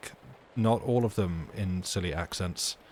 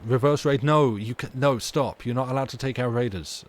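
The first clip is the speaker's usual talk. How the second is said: mock outrage; 4 semitones higher, 6 dB louder than usual. Mock protest at a rival raid.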